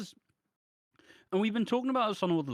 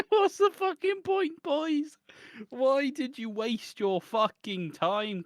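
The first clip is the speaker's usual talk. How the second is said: exasperated rant; 8 semitones higher, slower than usual. Real, not acted. Ranting at the soap writers.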